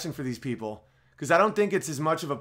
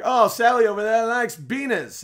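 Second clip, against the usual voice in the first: higher, louder Cockney caricature; mock Cockney; 7 semitones higher, 6 dB louder than usual. Mock Cockney, imitating a Cockney speaker's rhyming slang. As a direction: play a rhyming Cockney gossip. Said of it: "weird thing where they'll be like".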